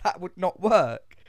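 loud, high, slow exasperated protest. Retold or imitated. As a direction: spell out the annoyance word by word. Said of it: "that fucking pissed me off".

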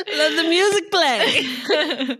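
playful catchphrase. Pretend. Joking show catchphrase.

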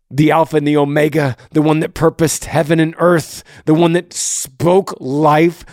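passionate. Real, not acted. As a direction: build it up with conviction. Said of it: "I'm just a very passionate person".

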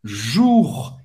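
"Jour" com U fechado e R na garganta; French jour. Shown as a demonstration. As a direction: isole a sílaba "Jour". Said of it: "O U em francês tem o som da letra U". ("Jour" dito sozinho, à francesa)

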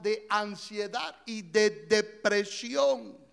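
words around a sip; talking between sips of a drink; while sipping a drink. Real, not acted. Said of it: "Perdóname si me estoy tomando".

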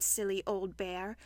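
low, soft, affectionate aside; fond. Acted. Christopher Robin to worried Pooh, fond. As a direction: drop to a tender tone.

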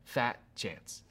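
low-key scoff with a sigh; acted-out doubtful sigh; scoffing resignation. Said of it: "you're probably giving that first laugh".

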